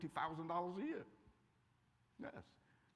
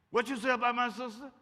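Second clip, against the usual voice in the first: mock challenge; 7 semitones higher, 7 dB louder than usual. Retort from jealous brother.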